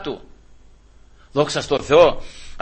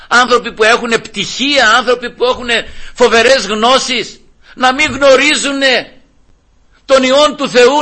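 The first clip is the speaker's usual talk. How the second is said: fervent preaching; 6 semitones higher than usual. Real, not acted. Preacher marvelling at learned people's ignorance, fervent preaching. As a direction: hammer each phrase home to the congregation.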